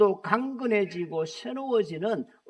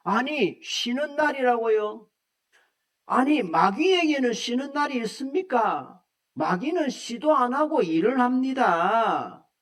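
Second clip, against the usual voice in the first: mock-indignant, a bit higher and pushed; angry retort; 3 semitones higher than usual. Deacon snaps back at the pastor, mock-indignant. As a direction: act out an offended deacon's retort. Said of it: "막 화를 내면서".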